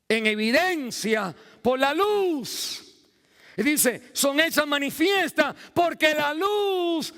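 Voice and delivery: high, loud, drawn-out scripture proclamation; preaching at full force. Acted. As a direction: proclaim the verse slowly, hammering each phrase. (predicación a toda voz)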